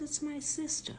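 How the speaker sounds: high, soft, matter-of-fact reply; calm daughter. Retold or imitated. Daughter answers robbers about her sister, calm and soft. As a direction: answer quietly in a small high voice. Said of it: "My daughter is calm".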